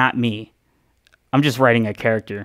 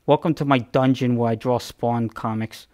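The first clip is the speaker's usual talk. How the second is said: Todd McFarlane impression. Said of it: "that's exactly how he talks".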